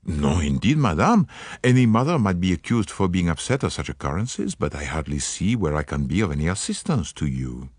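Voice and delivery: lightly voiced Poirot, gallant and polite; a hint of a French-accented detective, charming; courteous Belgian detective. Poirot reassures the worried mother.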